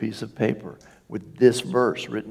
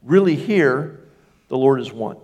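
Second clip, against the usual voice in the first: emphatic proclamation; 3 semitones higher, 4 dB louder than usual. Acted. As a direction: declare it like a herald. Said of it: "And he says".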